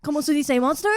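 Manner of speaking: put-on Mexican accent, the better attempt; Guillermo del Toro. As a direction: introduce yourself in a mock Mexican director's accent. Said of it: "I'm Guillermo del Toro".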